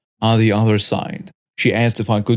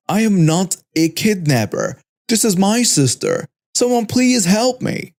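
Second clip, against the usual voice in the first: yelling back; 7 semitones higher than usual. Acted. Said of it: "I started yelling back".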